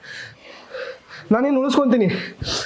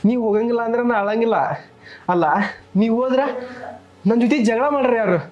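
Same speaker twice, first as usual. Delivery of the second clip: higher, pleading voice, close to tears; pleading, near tears; 5 semitones higher than usual. Acted. Husband begging his dying wife not to go, near tears. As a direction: beg her not to leave.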